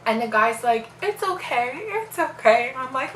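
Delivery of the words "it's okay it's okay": high-pitched soothing imitation; light, high reassuring voice; retold reassurance. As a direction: imitate someone hushing a patient, voice lifted. Retold staff member reassuring her.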